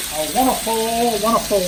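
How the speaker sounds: a light lilt savoring each wonderful; hint of an old-time bandleader. Cook savors the smell for viewers, lightly bandleader-like lilt. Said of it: "There's my bandleader quote".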